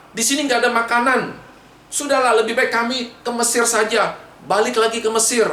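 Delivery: high-pitched complaint to Moses; acted indignant protest; grumbling. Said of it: "Dia bersungut-sungut kepada Musa".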